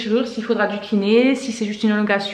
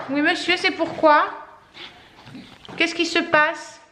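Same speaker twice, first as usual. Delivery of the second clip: higher, sing-song voice for the dog; high pet-talk voice; 7 semitones higher than usual. Acted. Mother greeting her excited dog in a high playful voice. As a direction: coo up at the pet, asking what's wrong.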